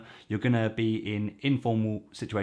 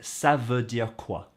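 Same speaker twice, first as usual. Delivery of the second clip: slow careful model; slower than usual. Shown as a demonstration. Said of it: "You can go with".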